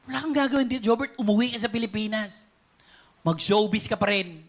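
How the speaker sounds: a lightly voiced God, calm and commanding; only a hint of a divine voice giving orders. God telling Jobert to go home, in a lightly voiced commanding tone. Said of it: "sabi ng Diyos sa akin".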